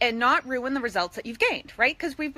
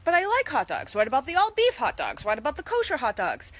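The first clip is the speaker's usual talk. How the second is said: whiny viewer; 4 semitones higher than usual. Retold or imitated. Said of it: "some of you are like".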